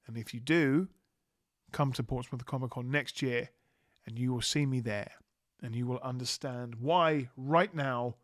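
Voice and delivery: said with a smile; smiling voice. Real, not acted. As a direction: let the smile come through. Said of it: "you can hear the smile in my voice".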